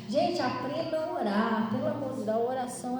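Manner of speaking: normal talking voice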